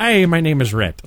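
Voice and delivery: slow, laughing, weak Irish accent; bad Irish accent. Shown as a demonstration. Host admits his Irish accent is bad, slow laughing attempt. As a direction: try an Irish brogue and miss. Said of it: "I don't do a very good Irish accent".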